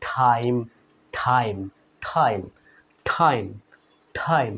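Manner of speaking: টাইম with a puff of air on the t; টাইম said like ঠাইম, repeated; টাইম with a forceful aspirated t; aspirated English t. Shown as a demonstration. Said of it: "টাইমকে আমরা বাদ দিয়ে কি উচ্চারণ করব".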